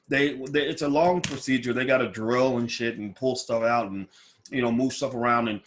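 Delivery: muffled speech from dental appliance; mouth full. Real, not acted. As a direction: talk around something in the mouth. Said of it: "So that's why I'm talking funny".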